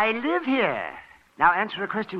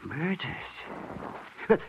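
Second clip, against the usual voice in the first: stunned disbelief; 3 semitones higher than usual. Acted. Hears wife was murdered.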